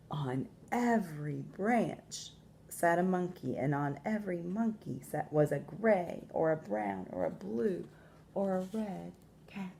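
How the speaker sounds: measured storytelling with long pauses; expressive picture-book narration; story read to children. A narrator's reading. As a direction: read aloud to young listeners, stressing key words.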